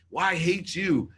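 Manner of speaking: loud, high retort ending in a bang; retold angry outburst. Son ending the call with his dad, furious. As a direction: explode back, re-enacting the fury.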